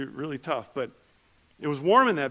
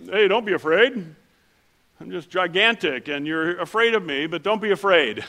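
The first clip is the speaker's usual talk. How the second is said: amused angel; 3 semitones higher, 6 dB louder than usual. Pretend. Pastor voicing giant angel.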